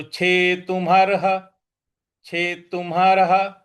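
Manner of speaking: छेतुमर्ह with the half र pressed; stress on half r. Shown as a demonstration. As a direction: push the र in छेतुमर्ह. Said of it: "आधा र". (आधे र पर ज़ोर)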